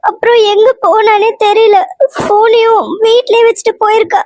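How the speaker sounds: put-on wife tells husband the girl is missing, crying. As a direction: sob it out to your husband. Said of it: "ஏன் அழுவுற?".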